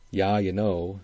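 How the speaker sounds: Upper Midwest "Yeah, you know" with open "yah"; Minnesota-style "Yeah, you know"; Upper Midwest accent. Shown as a demonstration. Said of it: "this accent that he's using for the title".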